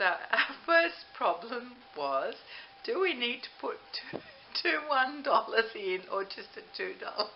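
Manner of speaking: high, loud, giggly laughter while talking.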